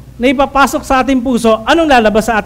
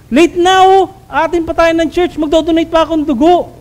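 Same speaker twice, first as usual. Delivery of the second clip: mock exasperated complaint; 5 semitones higher than usual. Irritated spouse on Sunday morning.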